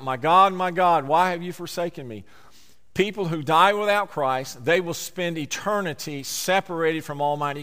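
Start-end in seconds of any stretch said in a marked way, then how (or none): 0.0-2.2 My God called out loud, then easing off; crying out. Acted. Preacher voicing Jesus crying out from the cross. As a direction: cry the opening words to heaven. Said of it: "Jesus cried out".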